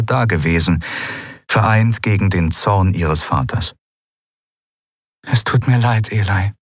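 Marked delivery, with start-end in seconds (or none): 5.3-6.5 understated sincere apology. A narrator's reading. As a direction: apologise earnestly, without raising the volume. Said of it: "sagte sie aufrichtig".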